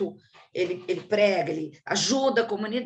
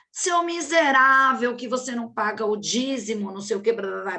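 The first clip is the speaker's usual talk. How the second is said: retold pastor scolding; 4 dB louder than usual. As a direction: lightly imitate a harsh pastor scolding a churchgoer. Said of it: "brigando com o fiel".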